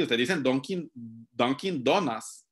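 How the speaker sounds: "Dunkin' Donuts" lento, dón-kin dó-nas; Dunkin' Donuts a la española. Shown as a demonstration. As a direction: di "Dunkin' Donuts" a lo hondureño, despacio. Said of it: "Ustedes no lo dicen así". ("Dunkin' Donuts" con pronunciación española)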